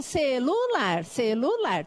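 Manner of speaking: celular split cel-lu-lar slowly; teacher counting syllables in celular. Shown as a demonstration. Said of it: "eu tô no nível silábico".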